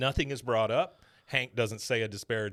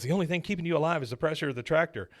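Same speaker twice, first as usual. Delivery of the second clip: fast, a touch higher; corrected character voice; 4 semitones higher, much faster than usual. Shown as a demonstration. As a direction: rattle it off as the son. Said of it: "I did the wrong voice".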